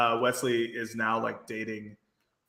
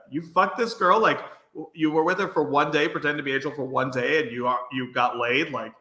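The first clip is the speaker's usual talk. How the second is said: mock incredulity; 3 semitones higher than usual. Podcaster voicing Cordy scolding Wesley over the girl, mock incredulous. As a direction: imitate a friend's disbelief, lightly played.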